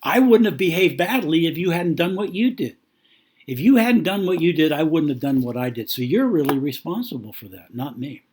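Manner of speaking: mock annoyed spouse shifting blame. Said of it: "gets annoyed and says".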